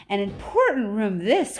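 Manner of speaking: lightly voiced eager Wonka; a hint of showman Wonka calling out; Wonka crying out. A narrator's reading. Wonka showing off his important room, lightly voiced. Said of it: "cried Mister Wonka".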